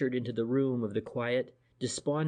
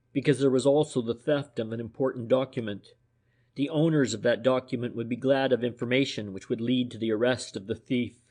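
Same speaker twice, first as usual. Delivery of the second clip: calm, firm, matter-of-fact; businesslike detective explaining the case; decisive, businesslike; 5 dB louder than usual. Acted. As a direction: lay out the facts decisively. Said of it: "in a decisive, businesslike tone".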